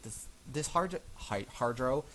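stumbling on "hydro", starting it as "hard"; halting false starts before landing on "hydro"; tongue-tied. Real, not acted. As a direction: trip over "hydro" and restart it. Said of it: "I can't talk".

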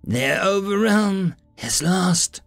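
high, slow yell. A narrator's reading. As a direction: cry it out in despair. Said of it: "the elf god yelled".

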